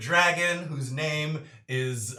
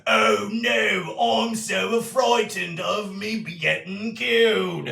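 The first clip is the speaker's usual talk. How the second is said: louder, slow hammed-up whimper through a laugh; slow, louder mock-terrified wail; mock fright; 6 semitones higher, 6 dB louder, slower than usual. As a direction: play the second head cowering, laughing. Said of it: "You hear them saying".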